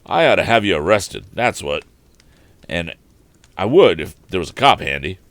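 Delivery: loud, blustering threat; threatening tramp. Acted. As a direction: threaten to call the police.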